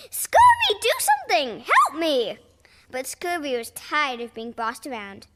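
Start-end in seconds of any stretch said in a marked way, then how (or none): 0.1-2.4 very high, loud shriek for help; fleeing captain shrieking for help; panicked plea. Acted. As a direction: scream for rescue. Chased captain begs.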